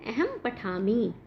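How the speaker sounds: slow model answer. Shown as a demonstration. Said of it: "तो पठामि किसके साथ आता है?".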